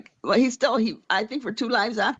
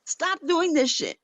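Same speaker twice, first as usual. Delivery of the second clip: scolding; 6 semitones higher than usual. Retold or imitated. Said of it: "and I'm like".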